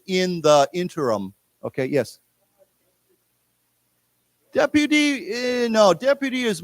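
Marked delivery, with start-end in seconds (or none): 0.1-1.3 IN THE INTERIM spoken as a set phrase; model phrase. Shown as a demonstration. Teacher showing students the phrase, modelled clearly. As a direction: give "in the interim" as an example phrase. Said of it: "so we say".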